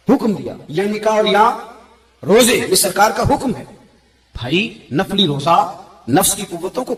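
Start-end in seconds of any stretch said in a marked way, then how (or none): 0.1-3.6 raised, emphatic preacher's insistence; loud sermon emphasis; forceful preaching. Real, not acted. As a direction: drive the command home with a laugh. Preacher stresses the command.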